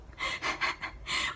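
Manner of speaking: breathy unvoiced chuckle; amused little laugh; soft laugh. Real, not acted. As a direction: laugh quietly to yourself. Reader laughs at twins' logic.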